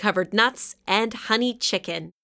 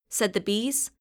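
ordinary delivery, nothing marked

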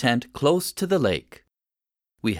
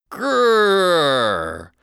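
louder growl; 4 semitones higher, 4 dB louder than usual. Acted. Lost boy growling to scare animals, louder growl. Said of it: "I growled just a little louder".

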